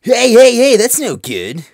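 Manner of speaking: high, loud objection; loud protest. Acted. Student objects to the new boy's rudeness, loud protest. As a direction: call out in protest, drawing it out.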